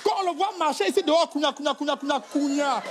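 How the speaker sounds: hammed-up scolding tirade; mock furious wife. Wife mocking her husband's manhood, hammed-up fury. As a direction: pile on the insults, mocking him. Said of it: "La femme prend ta colère".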